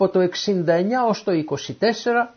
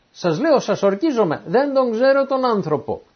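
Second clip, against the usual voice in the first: mildly insistent oath; sworn denial; 5 semitones higher than usual. Acted. Peter swears to bystanders he doesn't know the man, insistent denial. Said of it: "αρνήθηκε και μάλιστα και ορκίστηκε".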